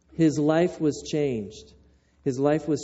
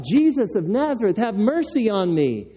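higher-pitched plea, mildly called out; crying out; 4 semitones higher than usual. Acted. Blind man to Jesus as he passes by, crying out. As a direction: act out a mild cry for help. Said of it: "the man starts to cry out".

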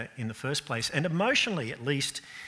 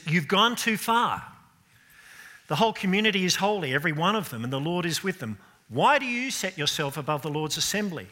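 raised, challenging complaint to Moses; voicing Korah; 5 semitones higher, 5 dB louder than usual. Korah confronting Moses, accusing and raised. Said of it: "He says".

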